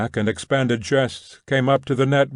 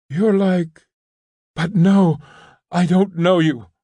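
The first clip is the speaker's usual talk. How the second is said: higher, louder, a hasty denial; shouted; 6 semitones higher, 4 dB louder than usual. A narrator's reading. Maslova shouting at Nekhludoff, higher and louder. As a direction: push him away with a raised voice. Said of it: "she shouted".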